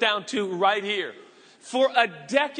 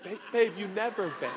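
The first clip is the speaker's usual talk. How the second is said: quieter, sidelong aside to the wife; hushed aside; 3 semitones lower, 7 dB quieter than usual. Acted. Husband quietly teasing his wife in front of guests, hushed. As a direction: murmur it so the guests won't hear. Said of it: "I'm like".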